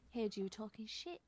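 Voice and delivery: put-on lightly done British accent. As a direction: tough British accent, a hint. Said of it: "why is he British".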